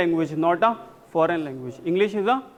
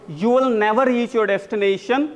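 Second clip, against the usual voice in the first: repeat-after-me model; 3 semitones higher than usual. Shown as a demonstration. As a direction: model the sentence for students to echo. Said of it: "Repeat after me". (दोहराने के लिए साफ़ बोलकर)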